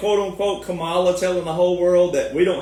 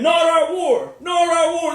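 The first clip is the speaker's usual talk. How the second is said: mock slogan; 9 semitones higher, 3 dB louder than usual. Mocking the rhinos' slogan.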